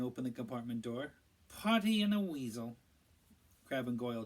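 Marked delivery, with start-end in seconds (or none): 1.5-2.8 higher, louder mocking sneer; Malfoy taunting Harry and Ron. A narrator's reading. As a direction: spit the nicknames with scorn. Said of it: "in his usual lazy drawl".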